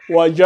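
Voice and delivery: "Waja'u" with "ja" held very long, then a long "u"; madd lengthening. Shown as a demonstration. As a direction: slowly chant "Waja'u", stretching both final vowels. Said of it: "pour l'allonger".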